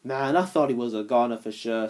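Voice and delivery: relieved. Acted. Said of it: "Snaptrap said with relief".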